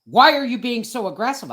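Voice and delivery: officer scolding a driver, mock patronizing. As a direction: imitate him talking down. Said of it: "my attitude".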